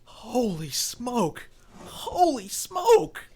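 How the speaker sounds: shocked exclamation. Acted. Bartender sees a man shot.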